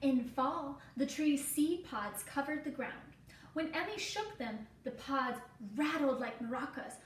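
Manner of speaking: gentle storybook read-aloud for a class; reading to children. Acted. Reading picture book to class.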